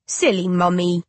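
put-on a small uncanny baby calling its mother.

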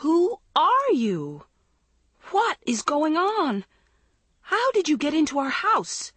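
distraught, pitch way up; wailing. A narrator's reading. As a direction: wail each word in bewildered panic. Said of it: "Andrea wailed".

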